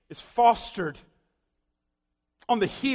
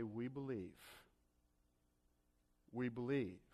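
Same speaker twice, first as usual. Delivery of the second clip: much softer, lower, empty repeat of we believe; hollow quiet echo; 9 semitones lower, 18 dB quieter than usual. Retold or imitated. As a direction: let the words fall hollow and hushed. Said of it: "are you going to continue to say".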